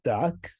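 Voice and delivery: "tak" with an open ah, as in taco; "tak" set apart, ah vowel; Ukrainian tak. Shown as a demonstration. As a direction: say "tak" as a model word. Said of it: "If you said".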